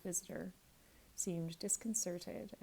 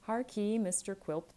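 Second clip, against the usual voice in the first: Harkee said louder and firmer; louder address; 3 semitones higher, 7 dB louder than usual. Acted. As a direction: repeat the call, pushing it harder. Young man repeats the address.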